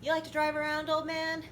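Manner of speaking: put-on high playful jab at an old man; teasing voice. Teasing game character.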